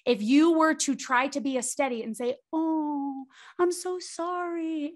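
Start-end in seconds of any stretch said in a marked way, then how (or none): 2.5-4.9 high, slow syrupy pity; condescending sympathy. Retold or imitated. Husband faking sympathy to his overwhelmed wife, syrupy. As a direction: drip with fake sorrow. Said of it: "it would actually feel really condescending".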